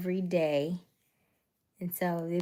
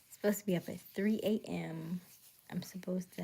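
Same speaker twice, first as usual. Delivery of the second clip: whisper; 5 dB quieter than usual. Real, not acted. Muttering aside about early alarm.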